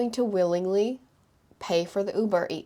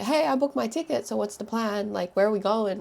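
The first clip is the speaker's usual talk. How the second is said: cheerful announcement; 3 semitones higher than usual. Retold or imitated. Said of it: "I was like".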